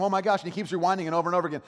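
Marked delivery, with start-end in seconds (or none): 0.0-0.4 high, louder mock amazement; astonished reaction. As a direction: imitate a kid suddenly thrilled by a discovery. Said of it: "he kinda has this reaction of".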